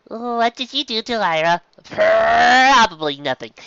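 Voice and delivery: high, loud shocked shout; worried mare demanding answers; alarmed cry. A narrator's reading.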